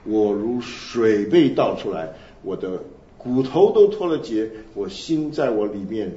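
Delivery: slow, weighty reading of a lament psalm; solemn scripture reading. Acted. Preacher reading Psalm 22 to the congregation, slow and solemn. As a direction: let each line of the psalm sink in slowly.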